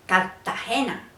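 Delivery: "Cartagena" as Cat-tagena, holding the T; Caribbean coast "Cartagena", R swallowed into a double T; costeño doubled T. Shown as a demonstration. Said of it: "pronuncian dos veces la T".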